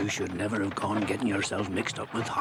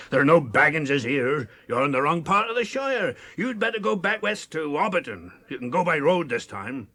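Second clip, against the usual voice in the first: loud gruff dismissal; telling him off; 3 semitones higher, 5 dB louder than usual. Retold or imitated. Maggot retelling how he ran off the rider, gruffly loud. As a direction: send the stranger packing.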